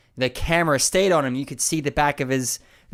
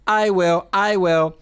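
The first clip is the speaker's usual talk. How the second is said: higher, louder robotic repeat; hypnotized Larry; 5 semitones higher, 4 dB louder, slower than usual. Retold or imitated. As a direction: chant it like a hypnotized man. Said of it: "I will say".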